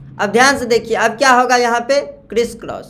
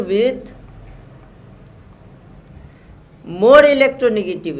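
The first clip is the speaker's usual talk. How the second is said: slow dictation; much slower than usual. Shown as a demonstration. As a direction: spell out the rule word by word for notes. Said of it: "पहला rule है आपका".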